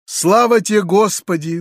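ordinary delivery, nothing marked

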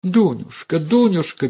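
high, pleading alarm; mother frightened for her daughter; frightened plea. A narrator's reading. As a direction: beg her to stop. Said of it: "перепугалась мать".

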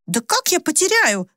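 a petulant daughter protesting; stamping girl. A narrator's reading. Maya protests to her mother, stamping her foot indignantly. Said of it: "топнула новым сапожком Майя".

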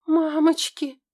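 high loud gasp of fear; gasping in fright. A narrator's reading. Girl sees the demon's fangs and gasps in fright. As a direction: gasp it out, terrified. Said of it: "ахнула я".

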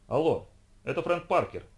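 lisping, dim-witted colleague, lightly voiced; a hint of a slushy lisp on every s. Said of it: "шепелявый голос придурковатого коллеги". (шепелявый голос)

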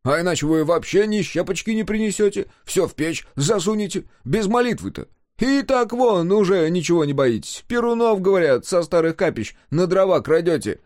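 high, insistent scolding; reproachful retort. A narrator's reading. Answering the outcry in quarrel.

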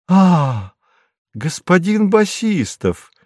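high, slow exclamation of recognition; delighted exclamation. A narrator's reading. The wife recognises the guest, a high drawn-out exclamation. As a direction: greet him with a rising surprised cry. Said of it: "воскликнула она наконец".

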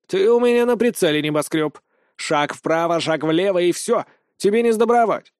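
a tiny hen playing sentry; mock threat.

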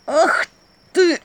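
громко и высоко; возмущённо выкрикни; гневный возглас. A narrator's reading. Князь ругается на мышь. (гневно, громко и высоко)

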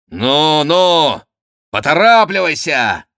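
high, loud hurrying call; impatient urging. A narrator's reading. Count impatiently urges rival on. (нетерпеливый громкий окрик)

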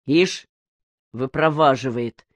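usual speaking voice

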